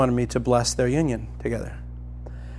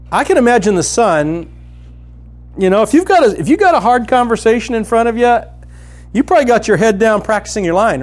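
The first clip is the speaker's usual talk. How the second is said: high, loud, driving sermon voice; fervent preaching; 6 semitones higher, 7 dB louder than usual. Acted. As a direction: preach it out with full fire. Preaching at full force.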